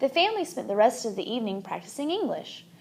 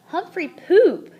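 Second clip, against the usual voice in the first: put-on slow, high, louder toddler yell; giggly yell; 7 semitones higher, 7 dB louder, slower than usual. A narrator's reading. Toddler cleaning the cage, yelling gleefully. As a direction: shout it with glee. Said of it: "he yelled".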